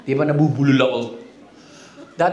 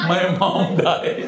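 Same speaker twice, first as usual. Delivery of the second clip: slow, mock mournful; hammed-up sad line; fake sad drama; 2 semitones lower, much slower than usual. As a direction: play the grief up to dodge talk. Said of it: "Nagdrama ako eh".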